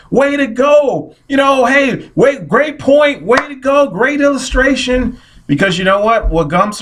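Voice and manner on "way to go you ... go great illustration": high, eager cheering from the seat; excited cheering. Retold or imitated. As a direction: cheer them on, fired up. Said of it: "I'm excited. I'm like".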